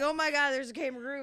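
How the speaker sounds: quick, high American gushing; imitated excited onlookers. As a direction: imitate an amazed American crowd in your own accent. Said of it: "I don't know why I turned Australian then".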